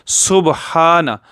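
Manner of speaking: सुबहाना slow, ba silent; drawn-out सुबहाना with jazm on ba; correct recitation. Shown as a demonstration. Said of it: "एहतियात कीजिएगा". (सुबहाना सही और धीमे)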